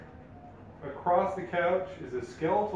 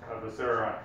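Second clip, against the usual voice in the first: booming echoing voice; 3 semitones lower than usual. Acted. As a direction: boom it out like an echoing undead king. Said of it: "a booming voice echoes saying".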